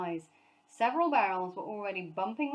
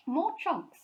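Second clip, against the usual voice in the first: higher, louder confident aside; confiding boast; 9 semitones higher, 7 dB louder than usual. A narrator's reading. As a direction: share it like a secret. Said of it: "said Sir Huntley confidently, confidentially".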